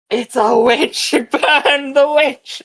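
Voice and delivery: high, slow, drawn-out mock alarm; hammed-up bluff. Shown as a demonstration. Game master showing what a bluff is like, hammed-up alarm. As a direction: wail a fake warning to stir the crowd. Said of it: "bluff is more like".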